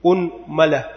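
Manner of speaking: أنملة with damma on the hamza and fatha on the mim, unmala; vowel demo. Shown as a demonstration. Teacher listing the variant for students, careful unmala. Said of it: "ثالثا ضم الهمزة".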